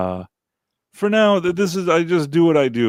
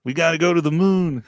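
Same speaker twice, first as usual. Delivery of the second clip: Kennedy impression; 4 semitones higher than usual. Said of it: "That's not a good Kennedy".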